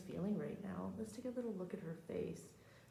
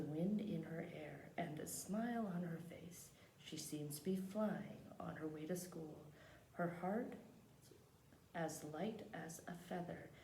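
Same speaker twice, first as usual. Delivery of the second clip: measured picture-book reading; read-aloud narration; slower than usual. Acted. Teacher reads a picture book to the class, measured storytelling. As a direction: read the story out unhurriedly, phrase by phrase.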